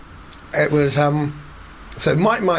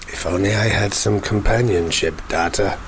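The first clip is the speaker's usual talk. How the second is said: mock pining captain; 5 semitones lower than usual.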